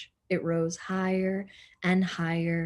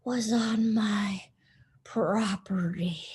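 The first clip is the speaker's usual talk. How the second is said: whisper. Acted. Eugenia voiced in the story.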